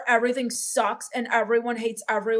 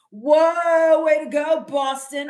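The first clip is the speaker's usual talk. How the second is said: sarcastic cheer; 3 semitones higher, 5 dB louder, slower than usual. Real, not acted.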